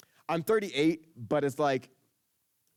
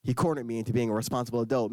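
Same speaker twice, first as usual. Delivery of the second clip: inner voice; 3 semitones lower than usual. Retold or imitated. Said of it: "inner me".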